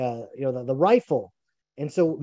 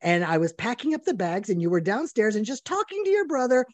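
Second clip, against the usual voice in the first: mock wife complaint; 5 semitones higher than usual. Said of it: "And she's like".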